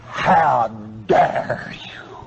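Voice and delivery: slow, breathless whisper of outrage; whispered rebuke. Acted. Preacher confronting the stingy flock in a slow whisper. Preacher mocking self-satisfied givers.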